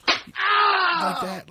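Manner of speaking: high, loud yelled aside; high, loud mock shout. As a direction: shout it like you're swinging hard. Acts out a hard slap.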